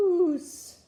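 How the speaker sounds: loud, high, long-drawn yell; storybook holler, stretched out. A narrator's reading. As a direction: call it out as a startled boy's yell. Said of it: "Luke looked at it and yelled".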